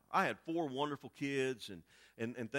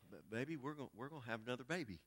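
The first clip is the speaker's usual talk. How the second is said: soft hesitant news; 4 semitones lower, 11 dB quieter, faster than usual. Retold or imitated. Wife breaks surprise news softly.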